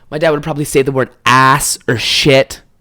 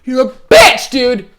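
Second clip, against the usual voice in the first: mocking buddy; 10 semitones higher, 4 dB louder, slower than usual. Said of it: "your fucking buddy's like".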